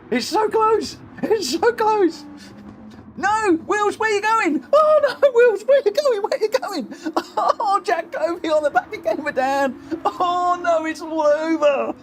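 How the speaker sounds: high-pitched cries of disbelief; urgent, squealing dismay as the race slips away; frantic race commentary. Real, not acted. Commentator to racer Wills on the final lap, frantic.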